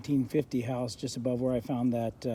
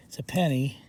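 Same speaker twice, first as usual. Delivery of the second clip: whisper. Real, not acted. Excited find, hushed reveal.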